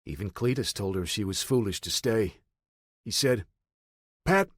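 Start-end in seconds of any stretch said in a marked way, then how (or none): 4.2-4.5 put-on old man's voice. A narrator's reading. Old man warns Pat.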